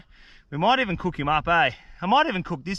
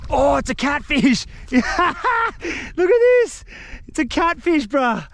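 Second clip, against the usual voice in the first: laughing; 8 semitones higher, 3 dB louder, slower than usual. Real, not acted. Surprised to land catfish.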